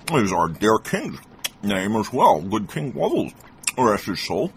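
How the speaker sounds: speaking round a stuffed mouth; mouth full. A narrator's reading. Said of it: "with his stuffed mouth".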